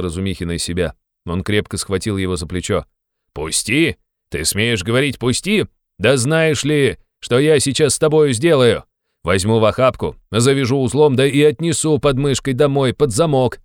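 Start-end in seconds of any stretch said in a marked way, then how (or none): 3.3-5.7 indignant echo. Acted. 6.0-13.6 loud, high menacing threat; angry threat. Acted. Razumikhin threatening to carry Raskolnikov home, loudly angry.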